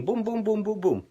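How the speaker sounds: quick string of bouncy booms; imitated pinball machine. Likening like buttons to a pinball machine, imitated booms. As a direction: mimic a pinball machine's repeated hits. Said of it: "it's like a pinball machine".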